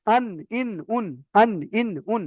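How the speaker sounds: "আন, ইন, উন" with n just above the tooth roots; tongue-tip nun. Shown as a demonstration. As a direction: separate syllables "আন, ইন, উন" with a held n. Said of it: "থেকে একটু উপরে লাগবে".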